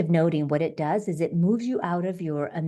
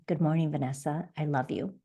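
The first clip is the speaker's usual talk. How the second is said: softer and a bit lower, tender; soft loving self-greeting; 3 semitones lower, 4 dB quieter than usual. Shown as a demonstration. Coach shows the morning greeting to yourself, softly tender. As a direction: say it gently to yourself, like to a loved one. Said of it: "Say your name".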